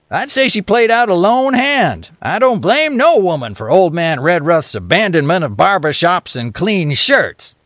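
lightly voiced drawling Western yarn-spinner; a hint of a rough frontier storyteller; folksy old storyteller. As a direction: tell it like an old-timer by the fire.

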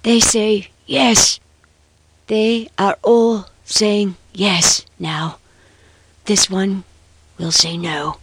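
put-on old man muttering by rote, slowed; slow, half-mad old clockkeeper voice; chattering old man. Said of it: "Chattering the accustomed words".

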